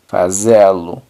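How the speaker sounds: fazê-lo as fa-ZE-lu, closed ê stressed, falling; Portuguese fazê-lo. Shown as a demonstration. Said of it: "queda fazê-lo".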